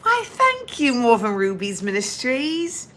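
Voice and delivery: put-on British TV-drama accent; lightly hammed-up British accent. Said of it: "That's from watching quite a bit of Game of Thrones, as well as Downton Abbey".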